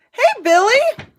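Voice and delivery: loud, high excited greeting; big cheery shout-out to a viewer; calling out. Real, not acted. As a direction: call it out across the room.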